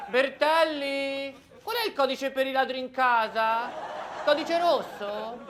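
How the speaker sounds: laughing while asking a colleague; giggling mid-question. Acted. Operator calls colleague, laughing.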